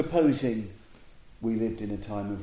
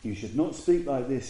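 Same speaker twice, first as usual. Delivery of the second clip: higher, firm retold admonishment; serious insistence; 4 semitones higher, 4 dB louder than usual. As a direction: press the rebuke home in earnest. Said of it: "he was really serious".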